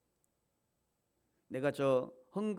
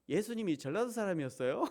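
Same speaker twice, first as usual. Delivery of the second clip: laughing question; 7 semitones higher, 4 dB louder than usual. Retold or imitated. Young man's question, laughing.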